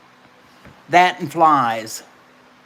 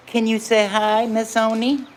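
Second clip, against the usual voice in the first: higher sing-song coaxing; 6 semitones higher than usual. Real, not acted. Coaxing baby to greet.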